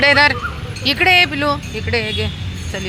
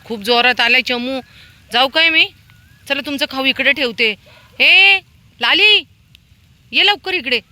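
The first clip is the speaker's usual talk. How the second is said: high raised voice, rising to loud hails; urgent calling; 9 semitones higher, 5 dB louder than usual. Real, not acted. Woman hurrying dogs to food in heavy rain, urgent calling. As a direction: call them over from a distance, names shouted.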